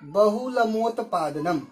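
बहुलमोत्पादनम spelled out slowly, syllable by syllable; slow teacher's model of बहुलमोत्पादनम; slow careful demo. Shown as a demonstration. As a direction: say बहुलमोत्पादनम slowly and clearly for students. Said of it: "यहाँ दिया हुआ है".

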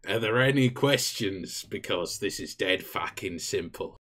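Australian briefing. Acted. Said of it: "Why have you turned into Mick Dundee?".

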